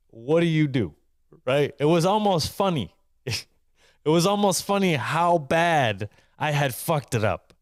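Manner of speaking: half-laugh through the shame; rueful laughter. Real, not acted. Laughs at his own disaster.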